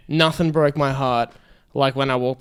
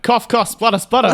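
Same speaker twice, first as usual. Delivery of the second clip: high, louder spoken fake cough through a laugh; hammed-up comic spluttering; laughing mock splutter; 7 semitones higher, 4 dB louder than usual. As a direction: say the cough noises as words, laughing. Jokey fake coughing while laughing.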